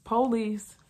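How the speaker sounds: officer shouting to the house; retold yelling. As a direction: call into the house to announce yourself. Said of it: "I'm still yelling".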